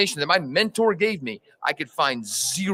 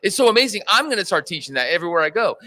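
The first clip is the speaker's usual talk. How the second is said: imitating own awed excitement, higher pitched; retold amazement; 5 semitones higher than usual. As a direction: gush like an amazed convert. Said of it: "I said the same thing".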